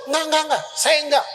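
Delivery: rapid emphatic refusal; insistent denial. Retold or imitated. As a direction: brush it off quickly. Preacher voices Peter's denial.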